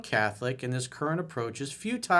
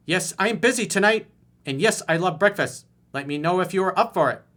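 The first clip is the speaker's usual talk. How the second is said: mock angry reply; 6 semitones higher, 7 dB louder than usual. Voicing her curt reply.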